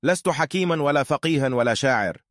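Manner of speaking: synthetic AI narrator voice; robot voice. Acted. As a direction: speak like a text-to-speech robot. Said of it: "أنا روبوت".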